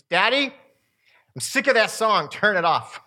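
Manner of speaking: lightly voiced fed-up daughter, drawn-out opening; serious fed-up child. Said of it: "She was serious".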